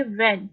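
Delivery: WHEN given a little weight; slight stress on WHEN. Shown as a demonstration. Teacher shows learners the stressed syllable, light stress on WHEN. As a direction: lean gently on the word WHEN. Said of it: "यहाँ पे हम थोड़ा सा stress दे रहे हैं".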